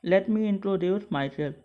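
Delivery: each English word spaced out slowly; slow teaching read. Shown as a demonstration. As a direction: read it slowly so students can repeat. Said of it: "हम लोग देख लेते हैं".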